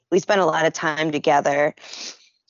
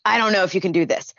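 doubting nag; 4 semitones higher, much faster than usual. Retold or imitated. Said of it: "I was like".

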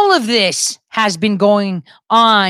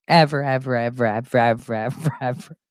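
each "ever" lower and softer until it dies; fading repetition; 10 semitones lower, 6 dB quieter than usual. Acted. Mocking endless time, fading echo of "ever". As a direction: let the "ever"s sink and fade out. Repeating word, fading away.

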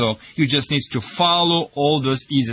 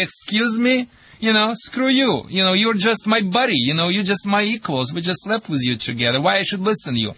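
mistress quote; 3 semitones higher than usual. Retold or imitated. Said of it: "she will say".

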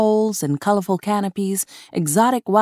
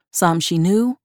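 usual speaking voice

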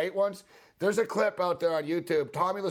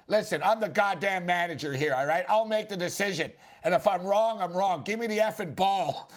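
mock angry manager; 4 semitones higher than usual. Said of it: "Tommy Lasorda says to him".

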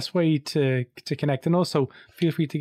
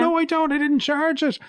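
protesting; 3 dB louder than usual. Retold or imitated. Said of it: "And I'm like".

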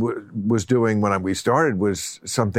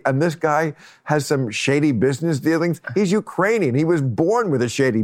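mock both-sides pundit; 4 semitones higher than usual. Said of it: "throwing your hands together like".

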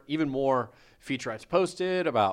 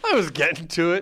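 louder, higher insistent repeat; insistent protest; 5 semitones higher, 7 dB louder, faster than usual. Real, not acted. Host protesting to his assistant, insistent and louder. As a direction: say it again loudly, protesting.

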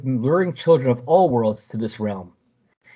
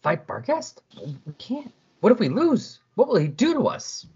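mock scared kids; 8 semitones higher than usual. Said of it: "all of a sudden they're like".

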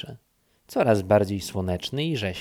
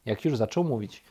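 usual speaking voice

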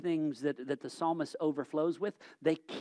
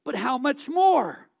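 rising rhetorical question; 7 semitones higher, 7 dB louder than usual. Acted. Rhetorical climax.

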